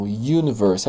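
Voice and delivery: universe with an opening Y glide; Y sound first. Shown as a demonstration. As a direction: start universe like the word "you". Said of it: "é um som de Y".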